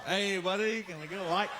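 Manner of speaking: a hint of a rough old drunk; lightly voiced street drunk begging; drunk man.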